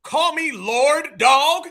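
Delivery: put-on slow, drawn-out parody of a Black American accent; mock Black American accent. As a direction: mimic his put-on Black American accent, hitting "dog". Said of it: "goes into the most ignorant black American accent".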